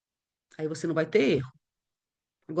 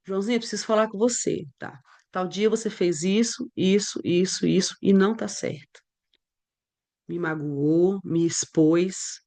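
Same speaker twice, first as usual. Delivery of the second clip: calm talk; 2 semitones lower than usual. Shown as a demonstration. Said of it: "Olha que diferença".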